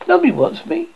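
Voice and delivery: put-on high, wailing child; a small boy's hurt cry; plaintive child's lament; sulky wail. A narrator's reading. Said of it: "he said with a coarse".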